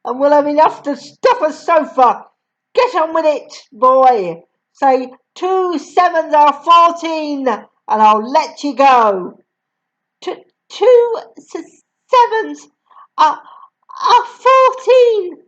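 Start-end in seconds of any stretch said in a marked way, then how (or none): 2.7-9.4 a bossy, louder Trunchbull voice, slightly higher; stern headmistress. Acted. Headmistress bullies boy, story voice. 10.2-15.4 put-on high, slow, tearful child's voice; gasping, crying boy. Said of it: "gasped Rupert".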